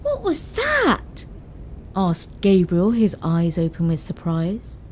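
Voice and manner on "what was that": put-on high, slow, alarmed boy's voice; a boy jolted by a bump; young son alarmed by turbulence, high startled cry; startled question. A narrator's reading.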